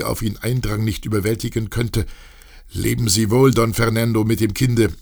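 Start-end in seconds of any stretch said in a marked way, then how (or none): 2.7-4.9 calling farewell. Acted. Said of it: "rief Josefe".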